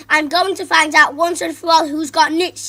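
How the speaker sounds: loud threatening teacher growl. Acted. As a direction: threaten the class. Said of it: "she growled".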